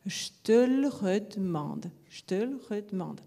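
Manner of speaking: «je te le redemande» Parisian, falling, schwas dropped; Paris delivery, second take fading; Parisian accent. Shown as a demonstration. Teacher demonstrating the Parisian version. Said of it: "pour le parisien".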